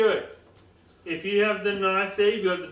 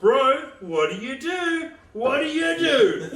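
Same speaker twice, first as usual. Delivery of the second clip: mock pushy question; 6 semitones higher, 3 dB louder than usual. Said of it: "That's putting me on the spot".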